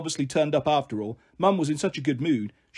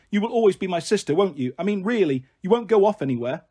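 put-on higher little-girl voice seeking reassurance; needy little sister; 3 semitones higher than usual. Little sister wanting a promise from big sister, needy. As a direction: ask like an earnest small child. Bliss, child character in story.

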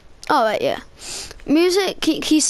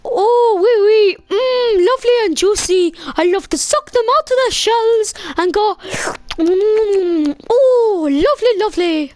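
hammed-up French teacher. Teacher savours snails, hammed.

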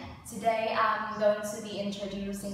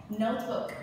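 Notebook with the first syllable stressed. Shown as a demonstration. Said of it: "You start at the first one".

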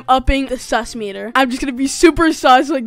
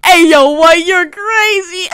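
loud, laughing shout of disbelief; amused outcry; 4 semitones higher, 7 dB louder than usual. Real, not acted. Player calling out a crazy chatter, loud and laughing. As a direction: holler it, stretching out the last words. Reacting to a chat message.

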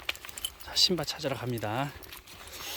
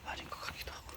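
whispering; 15 dB quieter, faster than usual. Real, not acted. Unvoiced whisper.

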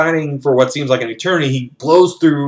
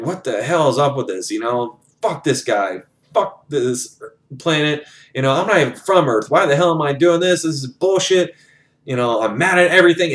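muttered gripe building to a higher-pitched rant; getting madder and madder; 3 semitones higher than usual. Retold or imitated. Felix fuming before the drop, griping builds to a higher rant. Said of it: "he's just getting madder and madder".

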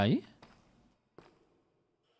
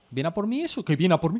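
high, alarmed question; startled as something charges you; alarmed surprise; 5 semitones higher, 4 dB louder than usual. Real, not acted. Player sees an enemy coming, high alarm.

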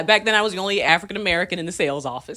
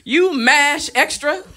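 higher, slow "you mash extra"; mock Asian accent; 7 semitones higher, much slower than usual. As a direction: deliver it slowly as the M*A*S*H extra jab. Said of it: "I was like".

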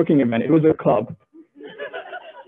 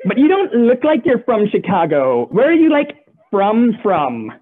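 put-on a touch of a ditzy girl, pressing; mock club girl; 3 semitones higher than usual. Club girl presses him on where he is really from, mock-ditzy. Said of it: "but no".

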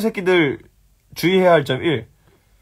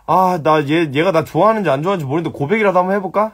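imitated clueless viewers; 3 semitones higher, faster than usual. Streamer imitating viewers unsure of their crush, mock dithering. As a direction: rattle it off like a wavering lovesick amateur. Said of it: "너네같이 그".

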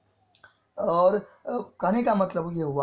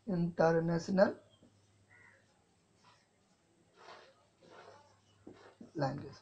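halting, drawn out, fading softer; slow dictation; 4 dB quieter, slower than usual. Shown as a demonstration. Teacher modelling the exam answer, slow and fading. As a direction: model the answer slowly for students to copy. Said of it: "कोई पूछे तो आप बोलेगा".

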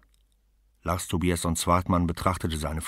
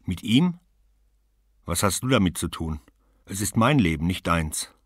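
sharp, raised defiant retort; defiant woman; 5 dB louder than usual. Acted. Woman snaps at her rival, defiant and raised. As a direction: snap back at the rival, louder.

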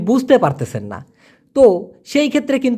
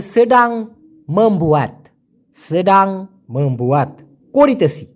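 ধীরে উচ্চারণ; slower than usual. Shown as a demonstration. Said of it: "সাধু ভাষায় সেটা হবে".

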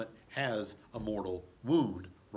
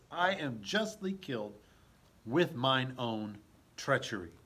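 P=A; plain. Shown as a demonstration. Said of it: "This is justice".

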